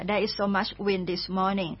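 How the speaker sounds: there is so much wind this morning dragged out, wind stressed and falling; slow it right down so they can follow. Shown as a demonstration. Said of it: "ถ้าเกิดมีลมก็".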